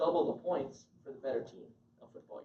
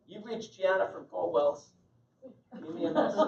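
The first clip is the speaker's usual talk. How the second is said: mocking sloppy voicemail; 3 semitones higher, 3 dB louder than usual. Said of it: "I've even heard this".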